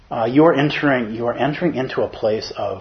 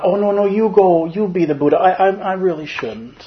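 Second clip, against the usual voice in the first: grandma's voice; 7 semitones higher, 4 dB louder than usual. Retold or imitated. Grandma politely refusing to be the Buddha, high and demure. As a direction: play the self-effacing grandmother waving the honor away. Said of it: "that's my grandma's voice".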